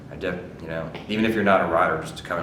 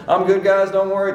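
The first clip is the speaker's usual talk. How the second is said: very high, loud holler; mock yell, pitched way up; imitated calling out; 13 semitones higher, 7 dB louder than usual. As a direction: breezily shout back to the crew. Rider calls back to crew.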